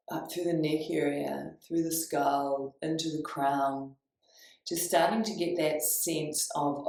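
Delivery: measured, lingering meditation guidance; guided meditation. Real, not acted. Teacher guiding listeners up the spine, calm guided meditation.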